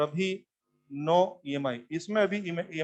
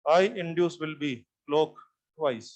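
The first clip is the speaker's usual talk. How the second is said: very slow, word by word, as if writing on the board; slow dictation; 3 semitones lower, much slower than usual. Shown as a demonstration. Teacher dictating slowly to his class. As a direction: spell it out slowly so students can copy. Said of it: "लिख देता हूं मैं यहाँ".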